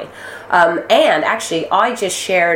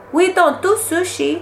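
put-on high-pitched, generalized Asian-accent parody; hack Asian accent; 11 semitones higher than usual. Comedian breaking an awkward audition silence, hack Asian accent. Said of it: "generalized Asian accent".

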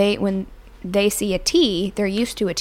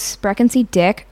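mock German line; 5 dB louder than usual. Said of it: "from Step Brothers".

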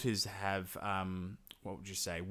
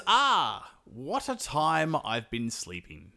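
waking up yawn; 4 semitones higher, 4 dB louder, slower than usual. Retold or imitated. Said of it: "He goes".

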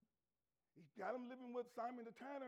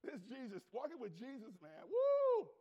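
excited Peter; 5 dB louder than usual. Acted. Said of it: "Peter's like".

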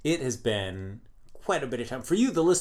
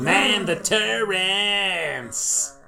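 higher, louder, very slow mock Australian drawl; hammed-up Australian accent; 7 semitones higher, 6 dB louder, much slower than usual. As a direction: lay on a fake Australian accent for the show opener. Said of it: "I'm gonna keep this voice".

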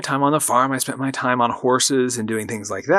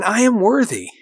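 affirmation; 8 semitones higher than usual. Shown as a demonstration. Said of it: "So say that with me".

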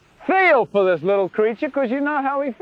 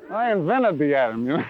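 wry God reply; 5 semitones lower than usual. Acted. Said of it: "God says".

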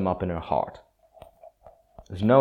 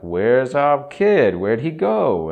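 worried parents; 6 semitones higher, 5 dB louder, slower than usual. Acted. Parents searching for lost son.

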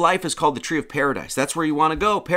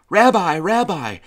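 drawn-out mock street call, louder and slow; imitated calling out; 3 semitones higher, 4 dB louder, slower than usual. Stranger hailing a man on the street, imitated calling out. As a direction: call it out slowly, as if hailing someone. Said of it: "somebody called me".

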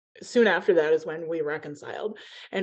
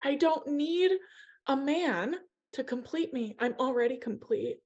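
teary, moved; 9 semitones higher than usual. Real, not acted. Emotional retelling of her awakening.

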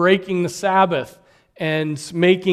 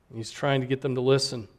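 "trying" said softer and quicker, dropping away; softer, faster restatement; 4 semitones lower, 5 dB quieter, faster than usual. Shown as a demonstration. Preacher repeating his point to the congregation, softer and faster. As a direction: murmur it quickly as an aside. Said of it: "restated line".

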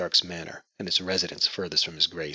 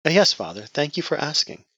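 put-on higher, hesitant young woman; nervous; 9 semitones higher, 4 dB louder than usual. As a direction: answer him nervously. Nervous daughter answers.

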